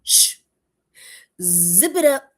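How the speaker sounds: mock stern, hushing command; firm hush. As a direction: shush yourself like a strict inner voice. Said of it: "And Spirit said".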